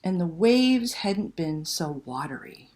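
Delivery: put-on lively read-aloud to children; storyteller voice for kids; story narration. A narrator's reading. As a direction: tell it like a bedtime picture book, full of suspense. Reads picture book aloud.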